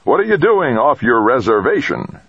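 indignant high-pitched shouting; angry shout. A narrator's reading. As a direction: demand it in an angry yell. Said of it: "he shouted angrily".

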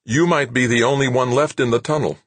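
anxious soldier, talking to himself; worried young trooper. A narrator's reading.

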